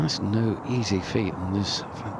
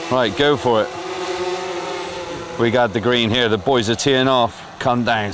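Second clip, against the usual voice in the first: shouting over noise; 2 semitones higher, 4 dB louder than usual. Real, not acted. Shouting over flying drone noise.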